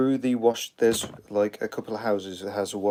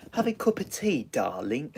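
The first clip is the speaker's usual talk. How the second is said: put-on much higher sweet old lady voice; 5 semitones higher than usual. Old lady in a cafe offering tea, high sweet voice. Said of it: "the old-fashioned way".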